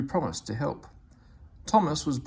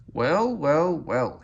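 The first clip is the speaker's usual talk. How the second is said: mock exclaiming; 3 semitones higher, 5 dB louder, much slower than usual. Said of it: "he exclaimed".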